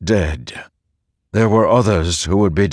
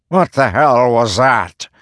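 startled; 6 semitones higher, 4 dB louder than usual. Acted. Reyes startled by binding.

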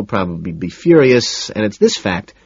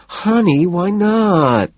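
much higher whining plea; 10 semitones higher, much slower than usual. A narrator's reading. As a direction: whine it sweetly, much higher. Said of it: "she whines".

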